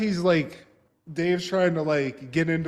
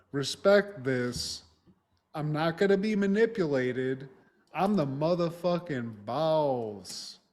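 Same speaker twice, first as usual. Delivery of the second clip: drawn-out, slow boss talk; hammed-up alpha posturing; mock swaggering bravado. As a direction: puff up like the big man in charge. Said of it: "he gets his big dick energy".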